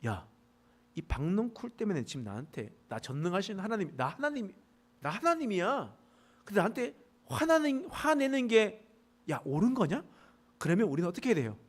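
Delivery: put-on a father-God calling out a sulking child; scolding God. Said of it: "하나님께서 말씀하시죠".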